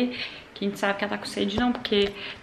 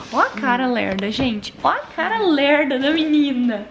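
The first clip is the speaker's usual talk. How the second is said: fond teasing; 5 dB louder, slower than usual. Real, not acted. Teasing her mother fondly.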